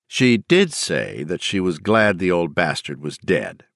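slow, calm and cruel; cold and calm. Acted. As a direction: deliver it with a shark-like grin. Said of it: "but not in shrillness".

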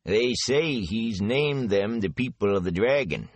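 slow, weighty hint of a secret; heavy with meaning. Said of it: "His voice became heavy with meaning".

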